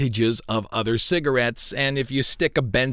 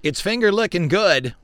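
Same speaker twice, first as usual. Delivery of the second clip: chipper 1950s ad; 4 semitones higher than usual. Retold or imitated. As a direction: pitch it like a TV ad. Host quotes chicken slogan.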